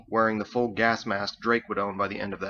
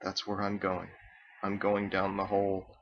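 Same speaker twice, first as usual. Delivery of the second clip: softer, to himself; quiet, grim murmur; 2 semitones lower, 5 dB quieter than usual. Acted. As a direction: murmur it as if to yourself.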